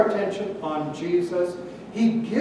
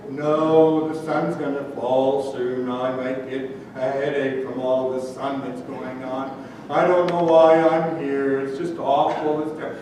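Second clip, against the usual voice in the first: lower, droopy gloomy moan; Eeyore; 4 semitones lower than usual. Acted. Preacher voicing his gloomy friend as Eeyore. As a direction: sigh it out like a depressed donkey. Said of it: "He was Eeyore".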